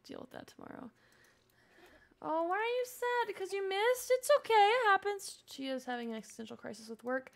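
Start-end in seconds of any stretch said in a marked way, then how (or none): 2.2-5.4 put-on comforting baby talk. Comforting her sim.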